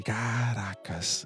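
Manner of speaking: very slow, soft, drawn-out "Caracas"; stunned. Real, not acted. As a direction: let it sink in, barely breathing it out. Stunned by threatening message. ("Caracas" arrastado, bem lento e baixinho)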